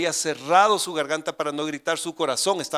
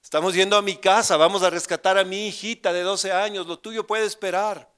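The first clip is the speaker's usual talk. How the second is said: reproche brusco; 6 semitones higher, 6 dB louder than usual. Retold or imitated. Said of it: "le hubiera dicho".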